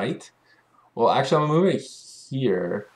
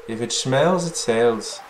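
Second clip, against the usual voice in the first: shopkeeper motto; 3 semitones higher, 4 dB louder, slower than usual. Retold or imitated. Shopkeeper invites the newcomer to sell catch, lightly voiced. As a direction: sell it like a folksy old shopkeeper saying. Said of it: "That's what my old papa used to say".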